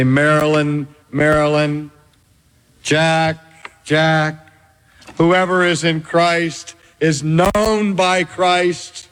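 slow, gentle calling of each name; the Lord tenderly welcoming the children into the kingdom; tender assurance. Acted. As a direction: reassure them slowly, lowering to the end. Jesus welcoming the preacher's children.

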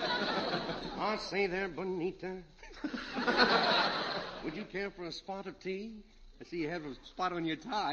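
a slow, mock-posh British accent with laughs; monocle British accent. Red greets Bonita in a put-on British accent. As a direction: play a silly English gentleman with a monocle, in a British accent. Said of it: "What is this monocle British accent".

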